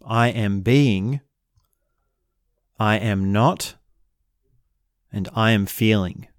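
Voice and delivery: each koan slow and deliberate; measured, unhurried recitation; slow demo reading. Shown as a demonstration. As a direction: lay out every phrase slowly with pauses. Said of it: "So look at these koans".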